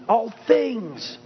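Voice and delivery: "All" rung out high; stress on All. Shown as a demonstration. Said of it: "Place that emphasis wherever you need to".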